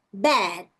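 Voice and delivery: "bad" with an open é; careful demo of open é; short E. Shown as a demonstration. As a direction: let the jaw just drop on "bad". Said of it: "Letra E é igual o nosso".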